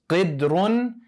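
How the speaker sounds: qidrun said slowly and clearly; careful word. Shown as a demonstration. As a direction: spell out qidrun slowly for learners. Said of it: "the word for pot is".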